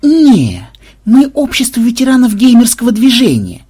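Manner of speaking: high, loud interjection; interrupting. A narrator's reading. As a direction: cut in with a high, cocky voice. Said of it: "перебил Ксенобайт".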